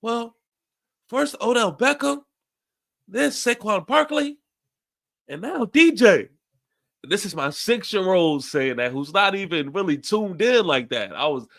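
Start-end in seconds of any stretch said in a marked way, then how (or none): 0.0-6.3 put-on much higher child voice listing names; a little kid reciting the losses one by one; imitating his young son. Dad voicing his son listing departed Giants players, high child voice. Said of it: "Then he was like".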